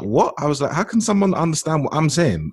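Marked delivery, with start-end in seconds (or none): 0.0-0.3 incredulous. Retold or imitated. Retold disbelief at not being understood. 0.7-2.5 high-pitched retold disbelief; incredulous. Student baffled at not being understood in Cambridge, incredulous.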